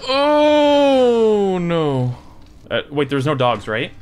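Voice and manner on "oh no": long high "oh" sliding down; dismayed. Real, not acted. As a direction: wail it as dread hits. Sees a new threat.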